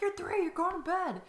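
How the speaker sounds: high, firm mock-parent voice; mock stern parent. Mother retelling telling her toddler off, mock stern. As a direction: lay down the law, half-joking. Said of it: "And I'm like".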